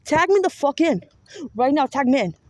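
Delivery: soul pleading with ancestors to be tagged in, shouting; insistent shout. Retold or imitated. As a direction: shout it like you're begging to step in. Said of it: "The fuck is he talking about?".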